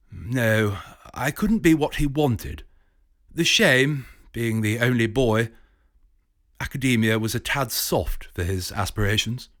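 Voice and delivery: mildly voiced, regretful professor; lightly voiced professor. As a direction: confide it like a rueful don.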